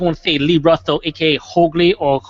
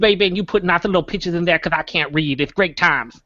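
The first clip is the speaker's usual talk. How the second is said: cartoon buffalo voice. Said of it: "in a cartoon buffalo voice".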